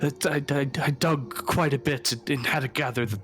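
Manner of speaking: high, halting stammer as Donovich; stuttering old priest. Acted. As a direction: stammer it out nervously. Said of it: "kind of stuttering".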